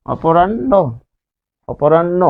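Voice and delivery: অপরাহ্ন said "o-po-ran-no", h silent; doubled n. Shown as a demonstration. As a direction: hold the n in অপরাহ্ন, then "no". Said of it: "আমরা যে হর্ষন্ত দিচ্ছি".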